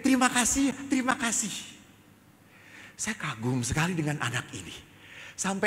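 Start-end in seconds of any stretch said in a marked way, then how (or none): 0.0-1.5 put-on high child's calls of thanks; mild imitated shout. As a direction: call out thanks as a kid, without full force. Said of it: "Dia terus teriak".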